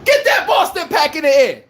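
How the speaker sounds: loud victory cry to the fans; celebratory call. Real, not acted. Host celebrating Boston's loss with fans, triumphant call.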